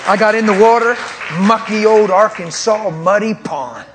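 thrilled, almost laughing as he wades in; excited. Real, not acted. Pastor telling podcast host about entering pond, excited.

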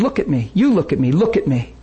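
firm, punched look at me; intense command. Retold or imitated. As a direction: demand eye contact. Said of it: "That's just how I talked right there".

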